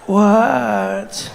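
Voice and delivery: slow, drawn-out sleepy reply; groggy, reluctant answer; woken-up annoyance. Acted. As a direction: act a tired woman disturbed in bed. Acted sleepy woman being pestered.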